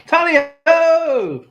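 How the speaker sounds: high, loud, drawn-out Tally-ho!; a slow, hearty Tally-ho! shouted high; excited cry. Real, not acted. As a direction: stretch out Tally-ho! like a hunting call. Cheering on finding a coin.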